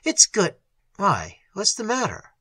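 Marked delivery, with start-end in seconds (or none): 0.0-0.6 higher-pitched hearty welcome; warm cordiality. A narrator's reading. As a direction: greet him with warmth. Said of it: "with a warm cordiality in his voice".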